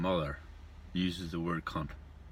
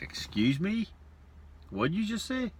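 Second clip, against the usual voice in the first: indignant barmaid; 11 semitones higher, slower than usual. Acted. Barmaid offended by crude remark.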